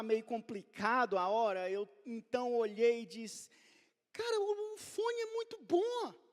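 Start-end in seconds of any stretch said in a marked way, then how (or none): 4.1-6.2 much higher, coaxing sell of the gift; nervously talking up the headphones; pleading. Retold or imitated. Father to crying son, selling the headphones: high coaxing plea.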